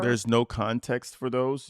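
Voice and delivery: slow, incredulous repeat of her words; mocking disbelief. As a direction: echo it back, baffled and slow.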